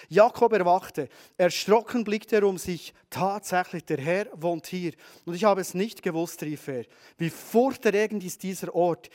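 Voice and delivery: solemn reading from Genesis; scripture reading. Acted. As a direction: read the verse deliberately, letting it land. Reads the Bible verse aloud.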